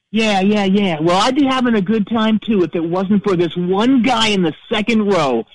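high, sarcastic stage banter; mock the guy from the stage; hammed-up rock singer jeer; rock frontman taunting. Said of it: "and he says".

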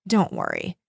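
dropped very low, cold inner thought; low, icy aside. A narrator's reading. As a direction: think it coldly, deep in the voice. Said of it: "Corky thought coldly".

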